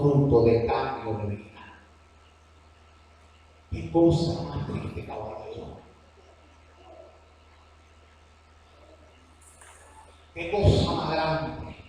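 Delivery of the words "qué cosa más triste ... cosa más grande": slow, drawn-out Cuban lilt on each word; Cuban accent. Real, not acted. Preacher lamenting false converts, slipping into his Cuban accent. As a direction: let the Cuban accent slip out as you lament. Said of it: "Me salió el cubano".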